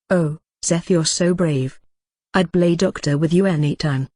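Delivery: lightly voiced helpless airhead; a hint of a swooning airhead; ditzy airhead. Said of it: "In my best helpless airhead voice".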